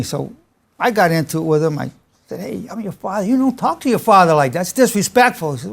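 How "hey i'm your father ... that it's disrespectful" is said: retold fatherly rebuke, pitched up; a little heated. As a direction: put the son in his place, mildly heated. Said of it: "we got a little heated".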